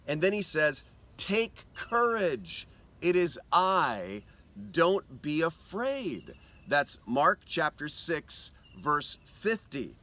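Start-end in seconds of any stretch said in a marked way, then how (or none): 1.2-6.3 reassuring. Acted. Jesus reassuring frightened disciples.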